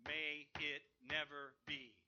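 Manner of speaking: a touch of standing outrage; Paul's emphatic cry. Retold or imitated. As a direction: say it as if banging on the pulpit. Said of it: "he was standing up when he wrote that".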